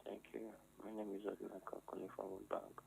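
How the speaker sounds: caller on a phone line; thin phone-line voice; over the phone. Real, not acted. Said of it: "Can you speak into your phone?".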